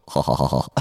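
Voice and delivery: low, mimicked ha-ha-ha; imitated little giggle. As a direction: copy a fan mimicking the giggle. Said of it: "come up to me behind me and just go".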